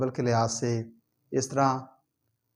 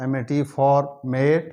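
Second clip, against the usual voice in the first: slow spelling out; much slower than usual. Shown as a demonstration. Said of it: "एफ़ओआर for".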